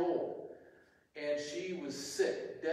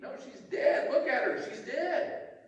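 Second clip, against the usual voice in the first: mocking laughter; 9 semitones higher, 3 dB louder than usual. A narrator's reading. Mourners laugh at Jesus.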